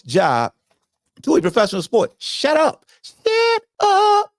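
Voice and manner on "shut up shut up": exasperated high shut up. Real, not acted. Host telling his audience to stop, voice climbing high. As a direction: wave them off, voice climbing.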